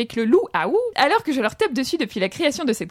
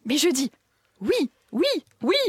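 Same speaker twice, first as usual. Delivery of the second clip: Julien Lepers; 3 semitones higher than usual. Retold or imitated. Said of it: "C'était une imitation de Julien Lepers".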